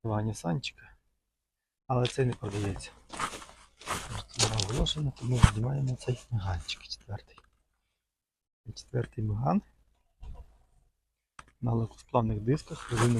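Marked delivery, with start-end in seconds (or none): none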